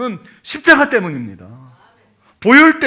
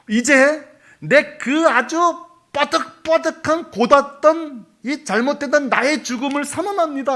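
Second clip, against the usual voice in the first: solemn declaration; 6 semitones higher than usual. Acted. Acted declaration of own death.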